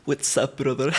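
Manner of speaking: low mock-macho greeting; deep bro voice. Shown as a demonstration. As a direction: talk like a tough dude on the street. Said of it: "gonna pretend to use that skill".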